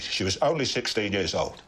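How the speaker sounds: slow, broken-voiced emotional Cockney; Michael Caine. Shown as a demonstration. Friend demonstrating an emotional actor, slow broken Cockney. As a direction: let the voice break, slowly. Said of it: "the broken voice".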